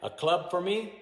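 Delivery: teacher acting out the model dialogue loudly; modelled dialogue. Shown as a demonstration.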